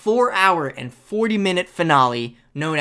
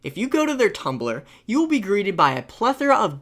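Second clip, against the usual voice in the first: slower and quieter, deliberate; slowed down; 4 dB quieter than usual. Shown as a demonstration. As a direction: take it slow and careful. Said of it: "Okay, I'm gonna slow down for this one".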